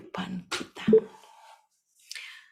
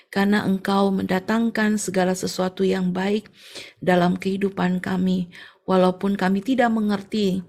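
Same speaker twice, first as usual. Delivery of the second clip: closing prayer. Real, not acted.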